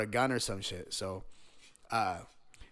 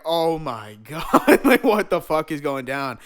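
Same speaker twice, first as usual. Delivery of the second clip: laughing disbelief; 5 dB louder than usual. Retold or imitated. Retold shock, laughing.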